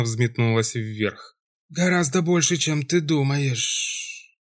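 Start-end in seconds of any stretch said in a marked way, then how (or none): 1.7-4.4 slow, drawn-out menacing hiss; sinister hiss. Acted. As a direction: stretch the words out like a threat. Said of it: "зловеще прошипел".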